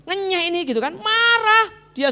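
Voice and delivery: high, loud, slow outrage; indignant. Acted. Preacher fuming on Naaman's behalf. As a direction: stretch the insult out.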